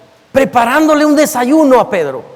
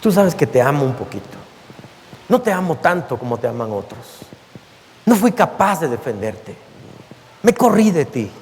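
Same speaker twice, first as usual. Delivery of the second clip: mild tearful plea; 8 semitones lower, 6 dB quieter than usual. Acted. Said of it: "Pedro comienza a llorar".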